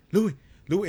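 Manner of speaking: high, loud call for help; panicked calling. Retold or imitated. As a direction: call out the name twice in mock panic. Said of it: "I saw Eric's panic in his face".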